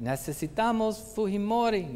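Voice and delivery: crowd call. Retold or imitated. People across Latin America chanting.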